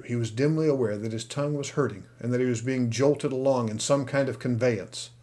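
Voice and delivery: usual speaking voice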